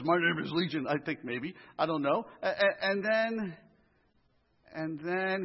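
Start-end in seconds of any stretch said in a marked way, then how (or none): 0.0-0.9 put-on growly demon voice; mock demonic growl. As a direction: growl it as the unclean spirit. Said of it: "I picture a growly voice".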